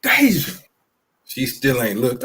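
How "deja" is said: much higher-pitched repeated holler; retold sideline call. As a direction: call the player's name to get attention, re-enacted. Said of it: "I can yell loud".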